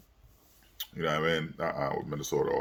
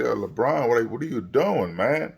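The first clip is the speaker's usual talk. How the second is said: exasperated yell; 5 semitones higher than usual. Retold or imitated. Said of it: "I'm like".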